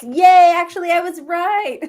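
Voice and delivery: high, loud little triumph; triumphant. Real, not acted. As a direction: crow about being right.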